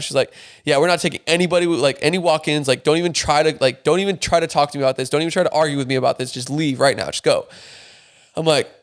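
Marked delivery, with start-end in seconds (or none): 0.6-7.5 rude clerk. Retold or imitated. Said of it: "She said in a very rude way".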